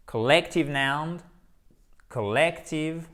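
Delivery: collective slow, stress on the second syllable. Shown as a demonstration. Teacher drilling collective with stress, slowly. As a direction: lean on the middle of collective. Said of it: "avec un accent tonique".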